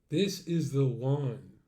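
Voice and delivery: slow, drawn out, falling at the end; slow savoring. Real, not acted. Settling on the photo, slow falling verdict. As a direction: savor each word, firm close. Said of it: "repeats it slowly, savoring".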